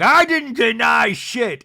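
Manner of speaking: loud, high, drawn-out denial; mock outraged protest, stretched out; imitated heated comeback; indignant retort. Acting out quarrel retort.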